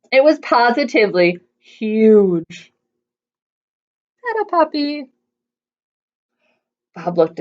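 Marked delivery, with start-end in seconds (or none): 2.5-5.1 slow disbelief. A narrator's reading. Bob doubtful at huge puppy.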